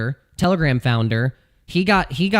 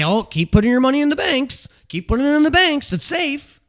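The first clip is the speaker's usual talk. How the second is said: much higher, sing-song fake reassurance; mock bank voice; 11 semitones higher than usual. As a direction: parody a smarmy bank telling you it's safe. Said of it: "and say".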